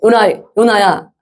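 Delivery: patient, unangered address, drawn out; God without anger. Acted. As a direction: take your time, gently reasoning with him. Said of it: "요나서는 절대 화를 안 내세요".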